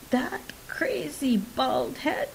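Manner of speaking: Rasta patois. A narrator's reading. Man explains his failure to his brethren, in Rasta patois. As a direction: put on Rasta patois, stretching it out high.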